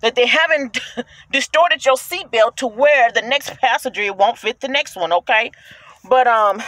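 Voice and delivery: winded while talking; short of breath, pushing on. Real, not acted. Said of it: "see, I'm out of breath".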